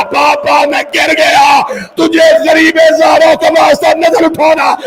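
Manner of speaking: slow grieving declamation, breaking into shouts; mourner's chanting lament; lamenting recitation. Acted. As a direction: wail the father's farewell to the crowd. Mourning recitation of Akbar's death.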